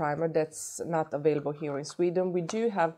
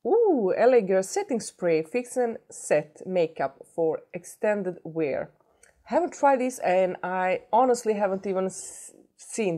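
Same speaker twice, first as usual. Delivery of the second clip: light up with delight; excited; 3 semitones higher, 3 dB louder than usual. Real, not acted. Thrilled at new product.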